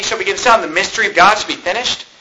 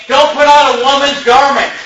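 quoting the verse; 5 semitones higher than usual. Retold or imitated. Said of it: "look what the Bible says, Brother Dave".

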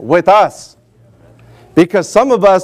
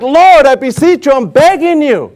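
pleading Moses; 5 semitones higher than usual. Retold or imitated. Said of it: "But Moses is like".

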